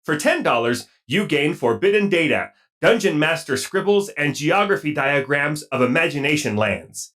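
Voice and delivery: lightly voiced robot; stilted robot announcement. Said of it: "take it away, robot".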